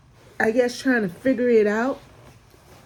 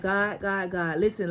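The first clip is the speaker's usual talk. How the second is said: softer, low pleading to God; quiet plea; 3 semitones lower, 5 dB quieter than usual. Retold or imitated. Retelling her private prayer to God, softly. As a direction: murmur the prayer under your breath. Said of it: "I was like".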